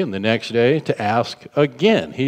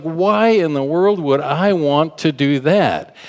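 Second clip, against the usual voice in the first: indignant rebuke; 4 semitones higher than usual. Shown as a demonstration. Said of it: "It's like".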